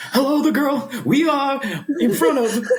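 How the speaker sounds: put-on high, dramatic old-time announcer; like falling off a cliff; old-timey voice. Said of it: "the old-timey voice where it sounds like I'm falling off a cliff".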